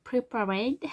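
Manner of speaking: slow, careful English name with a French accent; slowly saying a song title with a French accent. Real, not acted. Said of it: "Ouh, mon accent".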